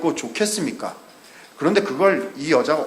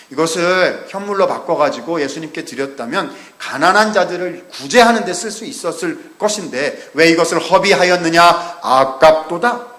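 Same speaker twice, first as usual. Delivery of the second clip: Judas's scripted objection; 2 semitones higher, 4 dB louder than usual. Retold or imitated. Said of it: "이렇게 얘기를 했어요".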